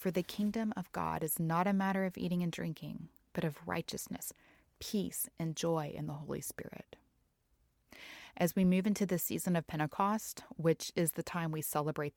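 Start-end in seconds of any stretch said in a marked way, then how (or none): 0.1-7.0 measured Bible verse, softening toward the end; scripture reading. Acted. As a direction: recite the verse reverently, growing quieter.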